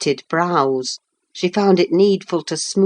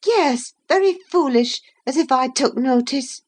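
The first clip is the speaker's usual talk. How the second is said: higher, sniffy and dismissive; peevish; 9 semitones higher than usual. Acted. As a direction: wave off his almanac with irritation. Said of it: "in a peevish tone".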